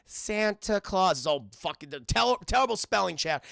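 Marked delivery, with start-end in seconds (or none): 0.1-1.2 slow, halting mock kid narration; child reading a letter. Kid narrating a letter to Santa, slow sounded-out reading. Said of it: "It's like".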